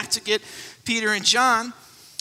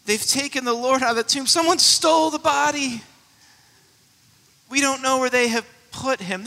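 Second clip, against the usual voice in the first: anguished, hurried despair; a frantic cry of a grieving woman; 3 semitones higher than usual. Retold or imitated. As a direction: let the loss break through. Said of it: "Did you hear her despair".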